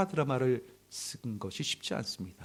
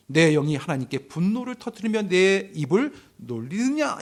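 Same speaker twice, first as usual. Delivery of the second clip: louder, mock-angry rebuttal from scripture; mildly acted anger; 3 semitones higher, 5 dB louder than usual. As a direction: voice an indignant challenge with a touch of anger. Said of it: "반박을 하면서 막 화를 냅니다". (조금 크게 화내며 반박하는 흉내)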